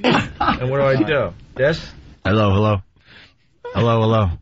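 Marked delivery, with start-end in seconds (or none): 2.2-4.3 cave echo. Shown as a demonstration. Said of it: "Can I get the echo?".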